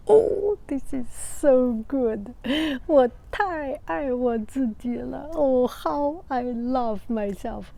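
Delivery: high, delighted gush at first; proud exclaim. Retold or imitated. Teacher admiring her own demo before the class. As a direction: swoon over your own painting. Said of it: "So I said".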